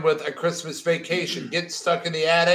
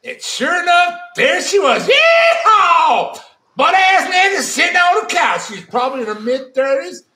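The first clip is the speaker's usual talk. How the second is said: much higher and louder Southern hick voice, yeehaw shouted; Southern accent; 7 semitones higher, 5 dB louder, slower than usual. Acted. Reading the nudist story in a loud hammed-up Southern accent. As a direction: overdo the Southern twang like a rodeo cowboy. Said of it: "both accents, you nailed it".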